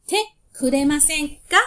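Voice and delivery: Te kuremasen ka said loud with a rising ka; teacher models Te kuremasen ka for students to repeat; model phrase for repeating. Shown as a demonstration. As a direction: announce it clearly for the class to copy, ka lifted. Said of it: "repeat after me".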